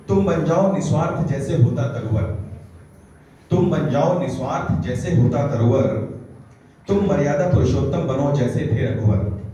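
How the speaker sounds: emphatic, evenly paced declamation; poetry recitation. Acted. Poet urging listeners to be like trees, declaimed recitation. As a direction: recite it as counsel in verse.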